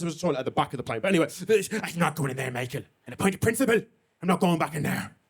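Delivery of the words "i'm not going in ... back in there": a hint of a wandering Irish accent teasing Michael. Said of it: "That accent took a bit of a European tour".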